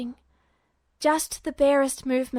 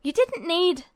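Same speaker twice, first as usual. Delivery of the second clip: snarling; 5 semitones higher than usual. A narrator's reading.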